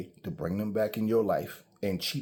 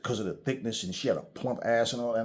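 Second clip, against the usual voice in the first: normal talking voice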